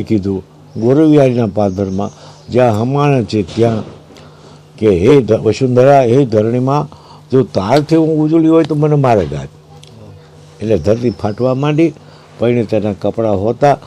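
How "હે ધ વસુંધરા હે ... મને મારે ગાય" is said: acted plea to the earth; retold invocation. Goddess calls upon Mother Earth.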